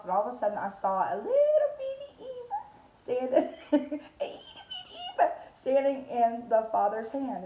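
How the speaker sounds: giggling through "itty bitty Eva"; laughing. Real, not acted. Laughing as she describes the vision of little Eva. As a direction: laugh at the tiny picture of herself.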